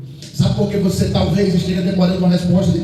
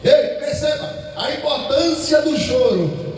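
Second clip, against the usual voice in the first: sudden raised call to the flock; preacher's call; 4 semitones higher than usual. Real, not acted. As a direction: call out to wake them up. Preacher calls out to congregation.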